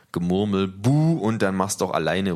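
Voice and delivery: empörte Buhrufe aus der Menge; Zwischenrufe. Acted. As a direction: aufgebracht dazwischenrufen. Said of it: "rufen aus". (empörte Zwischenrufe)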